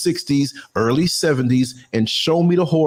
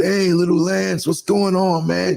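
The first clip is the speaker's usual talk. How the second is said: retold greeting; 3 semitones higher than usual. Junkie greets the boy in story.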